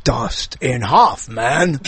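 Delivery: slow, low "Dustin Hoffman" split into separate words; said like a sentence. Shown as a demonstration. Host repeats the answer, "Dustin Hoffman" as a slow sentence. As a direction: break "Dustin Hoffman" up: Dust... in... Hoff... man. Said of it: "You gotta say it like a sentence".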